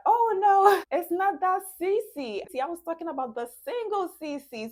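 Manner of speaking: high, loud laughing correction, the laugh dying as the words speed up; breaking into laughter while clearing up a mix-up. Acted. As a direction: giggle through a playful correction. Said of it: "the woman starts to laugh that".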